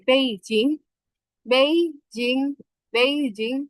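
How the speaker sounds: বেইজিং with Mandarin tones, the middle take slow; Chinese accent. Shown as a demonstration. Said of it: "চাইনিজে অ্যাকসেন্টে কথা বলবেন".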